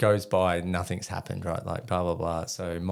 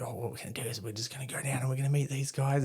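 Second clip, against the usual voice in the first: animated presenter; 5 semitones higher, 4 dB quieter, faster than usual. Retold or imitated. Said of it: "talking a bit like that, trying to be animated".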